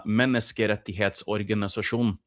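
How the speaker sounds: "Menneskerettighetsorganisasjon" as one long Norwegian word; Norwegian pronunciation. Shown as a demonstration. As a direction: run "Menneskerettighetsorganisasjon" together in Norwegian. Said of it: "In Norwegian, you say".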